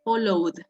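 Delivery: "Followed" with long O and a voiced D at the end. Shown as a demonstration. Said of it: "suena como D".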